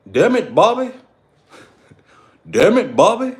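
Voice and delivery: put-on a dad hollering at his kid; Hank Hill yelling. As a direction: bellow at your son like an angry Texan dad. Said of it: "King of the Hill".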